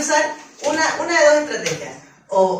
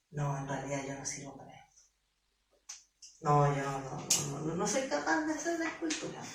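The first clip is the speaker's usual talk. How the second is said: very soft, lower, deflated murmur; defeated quiet voice; 10 semitones lower, 13 dB quieter than usual. Pretend. Would-be sculptor after harsh criticism, barely audible. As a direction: let the voice collapse into self-doubt. Criticised, self-doubt inner voice.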